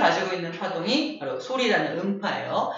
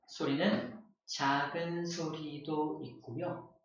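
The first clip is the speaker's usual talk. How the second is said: much softer and slow; 7 semitones lower, 14 dB quieter, much slower than usual. Shown as a demonstration. Teacher demos a quiet sound, soft and slow. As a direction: say it small and quiet. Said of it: "음량이 커지기도 하고 작아지기도".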